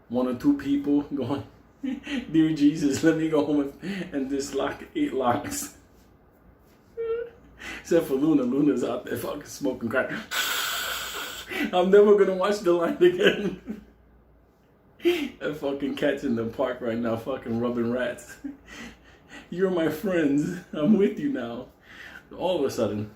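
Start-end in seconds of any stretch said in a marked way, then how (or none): 2.3-5.8 higher, hammed-up pleading; mock frightened prayer. Passer-by prays to get safely home, mock frightened. 11.7-13.6 high, loud comic wail; mock panicked vow. Passer-by swears off watching after street sights, mock panicked. 19.5-21.7 higher, drawn-out pally appeal; hammed-up friendliness. Acting out befriending the park's rats, hammed-up friendliness. Acts siding with street creatures.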